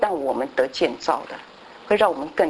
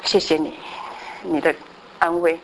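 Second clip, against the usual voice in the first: quiet prayer of thanks; 4 dB quieter than usual. Retold or imitated. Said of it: "我就说".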